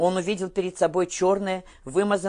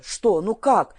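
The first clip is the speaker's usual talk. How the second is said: out of breath; 4 semitones higher, 6 dB louder, slower than usual. A narrator's reading. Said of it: "запыхавшись, спросил он".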